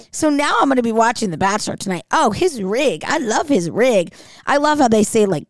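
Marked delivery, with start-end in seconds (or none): 2.1-4.1 put-on Australian accent. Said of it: "they kept saying".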